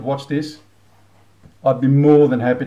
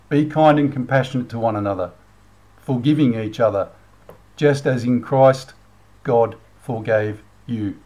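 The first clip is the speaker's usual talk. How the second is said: sincere reading; 3 semitones lower than usual. Shown as a demonstration. Vlogger rereading the verse of the day for viewers, sincere. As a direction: read it properly, with reverence. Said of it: "Let me read it again".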